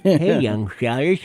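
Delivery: put-on slow creaky old man. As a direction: drawl it like an old timer.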